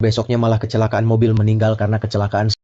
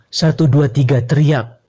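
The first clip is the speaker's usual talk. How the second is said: louder, higher count to a cheer; count-in shout; 4 semitones higher, 4 dB louder, slower than usual. Acted. Leader counting the staff into a chant, loud.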